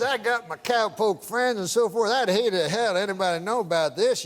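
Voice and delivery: lightly put-on old West accent; a hint of old cowpoke accent; old-days accent. Comic voicing the old prospector to the bartender, light old West accent. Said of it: "I can tell by the accent".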